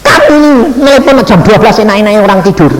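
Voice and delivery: mild mock telling-off; retold scolding. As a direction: tell him off for calling at midnight. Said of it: "tak marah ya".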